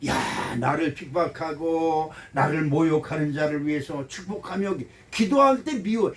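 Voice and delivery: ordinary talk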